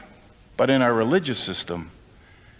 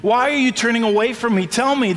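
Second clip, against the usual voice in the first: God asking; 9 semitones higher than usual. Acted. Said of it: "he now says".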